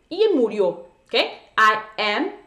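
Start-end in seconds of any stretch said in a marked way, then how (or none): 1.1-2.3 put-on "I am fifteen years old" stretched very slowly and louder; very slow drawn out model. Shown as a demonstration. Teacher hammering in the correct phrase, very slowly. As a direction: stretch every word of the phrase. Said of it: "yo voy a decir".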